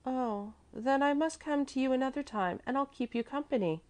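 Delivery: put-on high, consoling child's voice. A narrator's reading. Little girl offers lonely gentleman company, high consoling voice. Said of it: "Mäzli said consolingly".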